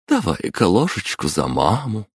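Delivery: put-on coaxing mom feeding a child; tender coaxing. Мама кормит сына с ложки. (ласково уговаривая)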